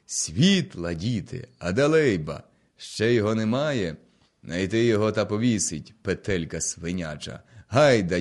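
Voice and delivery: rally the rebels, roaring out orders; shouting orders. Acted. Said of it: "кричить гонта".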